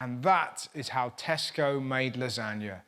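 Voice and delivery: low, slow, solemn sign-off; mock closing narration. Host caps a guest's horror story, mock-solemn narration.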